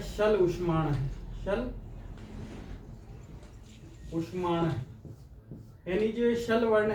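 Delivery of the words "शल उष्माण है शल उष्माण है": slow sutra recitation. Shown as a demonstration. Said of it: "ऐसा सूत्र लिखा हुआ है".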